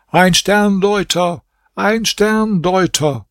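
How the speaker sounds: hoch und langsam gedehnt gerufen; erneuter lauter Ausruf. A narrator's reading. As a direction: ruf es beharrlich zum dritten Mal. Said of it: "rief zum dritten Mal". (Prinz ruft beharrlich vor dem Palast aus)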